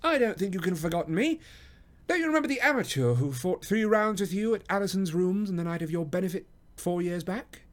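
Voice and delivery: high-pitched, lively gentleman; genial reminder. A narrator's reading. Holmes reminding the boxer of their match, genial. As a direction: jog his memory cheerily. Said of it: "cried Sherlock Holmes genially".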